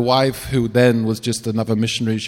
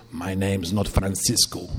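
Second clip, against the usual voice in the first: low, slow, menacing otherworldly voice; horrible demonic voice; 4 semitones lower, 6 dB quieter, slower than usual. Retold or imitated. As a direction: growl it out like something not human. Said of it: "In this horrible voice".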